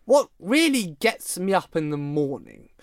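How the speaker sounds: a light, rambling mock Biden speech; Joe Biden impression. Mocking Biden's motivational speech for the podcast, lightly voiced rambling. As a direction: ham up an old president's rambling pep talk, mildly. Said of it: "I shall give a similar example of his motivational speech".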